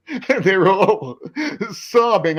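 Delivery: laughing through it. Real, not acted. Laughing while describing weeping audience.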